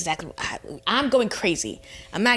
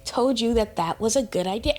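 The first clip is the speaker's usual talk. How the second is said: outraged disbelief; 2 semitones higher than usual. Retold or imitated. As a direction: ask it like you can't believe it. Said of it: "I'm like".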